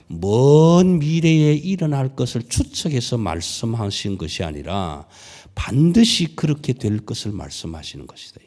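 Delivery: ordinary talk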